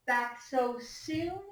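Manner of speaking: slow, drawn-out teasing question; a big sister amused she's back; Margaret teasing. Acted. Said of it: "asked Margaret".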